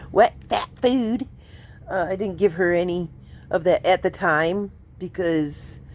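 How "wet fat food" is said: slow, amused repeat of the slip. Shown as a demonstration. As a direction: savour the mistake.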